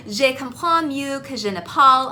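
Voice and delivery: hesitant learner French, English accent. Real, not acted. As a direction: struggle through the French phrase. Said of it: "I'm probably just butchering every single word".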